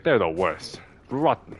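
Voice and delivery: mock Patches with a hint of Scottish brogue; Scottish accent. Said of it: "I gave him a Scottish accent".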